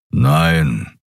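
low, gruff grumbled no. A narrator's reading. Kero grumbling his answer at the officer, low. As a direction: growl the word out low. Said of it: "brummte Keru".

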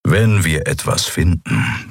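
grumbled threat. Acted. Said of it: "brummte Keru".

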